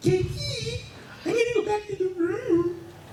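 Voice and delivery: little, very high, tiny cartoony voice. Retelling what a fox roommate told him, in a little cartoony voice. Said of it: "in his little cartoony voice".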